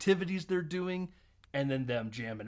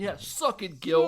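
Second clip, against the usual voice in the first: mock gloating; 5 semitones higher, 5 dB louder, slower than usual. Acted gloating fencing winner.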